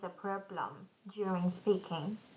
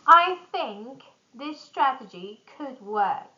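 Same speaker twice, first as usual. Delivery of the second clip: varied, lively pitch for a presentation; lively presentation intonation; 2 semitones higher, 5 dB louder than usual. Shown as a demonstration. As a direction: present it with rising and falling energy. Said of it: "improve the way".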